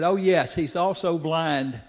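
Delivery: slow, drawn-out sarcastic reply. Retold or imitated. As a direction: say it with pointed sarcasm, stretching the end. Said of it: "she sarcastically said".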